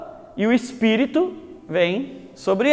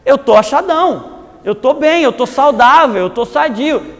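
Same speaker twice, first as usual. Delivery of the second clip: self-satisfied; 3 semitones higher than usual. Retold or imitated. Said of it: "É o Nicodemos".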